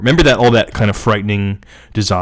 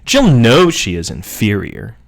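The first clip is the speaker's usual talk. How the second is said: slow, deliberately superior delivery. Shown as a demonstration. Reader showing how Jill's inferiority should be said, superior tone. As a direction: draw it out with lofty self-assurance. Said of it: "say it with a superior ter-, tone".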